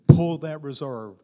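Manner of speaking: loud, insistent drill command; urgent order. Retold or imitated. His army training tells him to pull, loud order.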